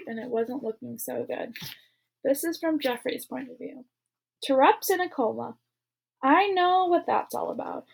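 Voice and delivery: reading a novel aloud to a class; steady read-aloud narrator voice; story narration. A narrator's reading. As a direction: tell the story to listening students. Reads novel chapters aloud.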